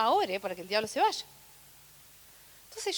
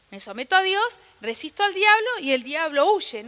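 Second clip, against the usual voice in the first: louder preaching proclamation; 3 semitones higher, 6 dB louder than usual. Real, not acted.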